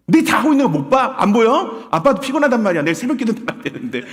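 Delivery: loud, high-pitched irritated rant; hammed-up grumbling outburst; scolding parent. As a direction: play an annoyed parent woken from sleep. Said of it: "그런 부모가".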